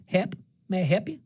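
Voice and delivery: "Hep" said as Natchez does, dropping the L from help; Natchez accent. Shown as a demonstration. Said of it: "They take the L out".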